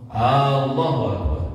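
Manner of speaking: Allahu said with an extra glottal stop in front; added hamzah. Shown as a demonstration. Teacher shows the added hamzah on Allahu. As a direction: put a hamzah before Allahu. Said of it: "Dia menambahkan hamzah di depannya".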